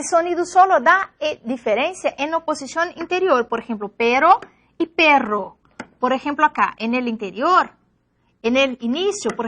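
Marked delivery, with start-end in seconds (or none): 3.9-5.6 pero with a single tapped r, perro with a rolled trilled rr; tap versus trill demo. Shown as a demonstration. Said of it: "Eso se pasa en el par R y R".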